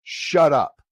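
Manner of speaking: put-on loud, slow, fed-up teen snapping at dad; annoyed daughter. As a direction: cut him off, done with the lecture. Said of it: "She goes".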